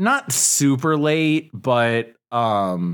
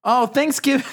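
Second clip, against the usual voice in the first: dramatic sigh; 10 semitones higher, faster than usual. Real, not acted. Groan at dreaded topic.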